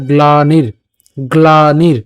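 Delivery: "গ্লানির" drawn out as glaa-nir, r closing the second syllable; r joined on. Shown as a demonstration. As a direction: say "গ্লানির" with the r attached to ni. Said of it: "দন্তান্ন রসিকার সাথে নিয়ে গেলাম".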